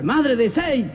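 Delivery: mock shout. Husband calling his wife a second time, mock shout. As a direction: call out insistently without real volume. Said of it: "a gritar".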